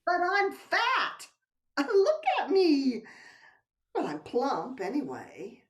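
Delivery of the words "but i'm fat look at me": laughing. Acted. Laughing protest at being called bony.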